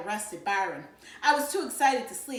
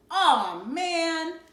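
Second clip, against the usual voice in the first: put-on whiny boy; 7 semitones higher, 7 dB louder than usual. A narrator's reading. Byron complains.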